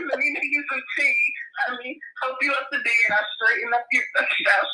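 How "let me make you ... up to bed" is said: giggling through the offer; laughing. Real, not acted. Owning her tea habit, said through real laughter.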